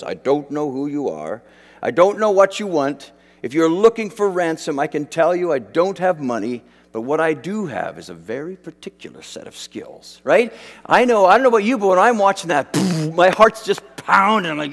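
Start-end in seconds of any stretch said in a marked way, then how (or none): 0.0-10.2 a hint of a calm, deadly father on the phone; Liam Neeson impression. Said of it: "and Liam Neeson goes".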